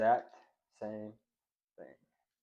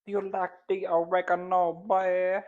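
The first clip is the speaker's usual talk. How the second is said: high-pitched teasing voice; high playful crooning voice; 7 semitones higher, 3 dB louder than usual. Acted. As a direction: tease the seasoning in a high voice.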